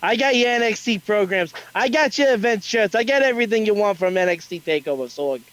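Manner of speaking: put-on a rough, hammy Brooklyn accent. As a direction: street vendor hawking in Brooklyn accent. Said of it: "That's my horrible Brooklyn accent".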